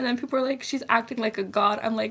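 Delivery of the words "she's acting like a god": usual speaking voice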